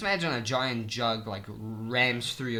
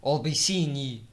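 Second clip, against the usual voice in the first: hammed-up British lad's farewell; British accent; 2 semitones higher than usual. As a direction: say goodbye in a mock British accent. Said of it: "now I just do it like how they actually say it".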